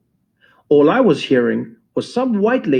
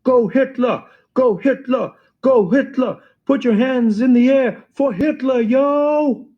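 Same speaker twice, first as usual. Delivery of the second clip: yelling on the mic; 8 semitones higher than usual. Retold or imitated. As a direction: yell it over the beat.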